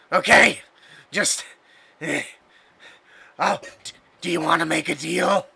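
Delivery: pleading imp, bargaining nervously; begging for my life. Acted. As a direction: plead for your life with the heroes. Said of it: "almost pleading voice from this thing".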